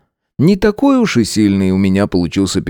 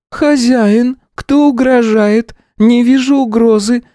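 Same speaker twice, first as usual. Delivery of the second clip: high, flat golem voice, slow; concerned stone creature droning; slow stone monotone; 4 dB louder, slower than usual. A narrator's reading. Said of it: "обеспокоенно прозвучал ... голос голема". (монотонный голос голема)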